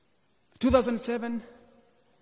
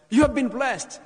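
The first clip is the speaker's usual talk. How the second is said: higher and louder declaration to the congregation; emphatic preaching; 7 semitones higher, 9 dB louder than usual. Real, not acted. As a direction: preach it out with conviction.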